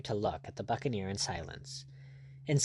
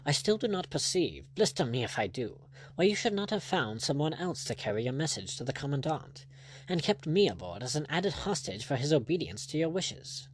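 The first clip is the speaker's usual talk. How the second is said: higher-pitched, perplexed English lord; puzzled lordship; 4 semitones higher than usual. Acted. Lord asking Blood why he is freed, higher and puzzled. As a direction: question it as a baffled aristocrat. Narrator voices Lord Julian.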